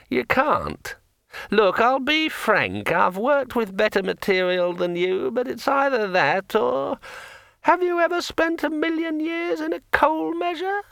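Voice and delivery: very high, insistent sword voice; a magic sword laying down the law; pushy talking sword. A narrator's reading. Sword Kring lectures.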